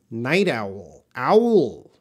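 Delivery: "owl" drawn into OW-ul with a falling tune; pronunciation model. Shown as a demonstration. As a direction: say "Night owl", then "Owl" alone, clearly for a learner. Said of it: "could you pronounce this owl".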